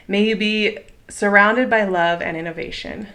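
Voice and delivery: gentle, unhurried blessing, each wish given like a small prayer; heartfelt toast. Real, not acted. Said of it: "here is the toast I have for you".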